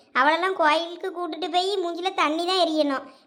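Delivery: ordinary delivery, nothing marked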